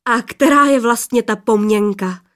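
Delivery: put-on a happy shout to the girls; joyful call. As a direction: call out in glad surprise. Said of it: "křikl radostí".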